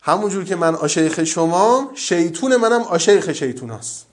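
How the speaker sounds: lightly imitated Yazdi preacher; Yazdi accent. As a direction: quote the old sheikh in a mild Yazdi lilt. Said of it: "من لهجهٔ یزدی شاید بخوام در بیارم". (تقلید ملایم لهجهٔ شیرین یزدی)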